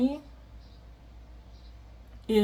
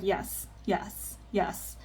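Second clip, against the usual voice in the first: soft unvoiced whisper of the sister; whispered yes; 8 dB quieter, much slower than usual. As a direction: whisper it as the sister on the phone, barely heard. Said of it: "she's just like".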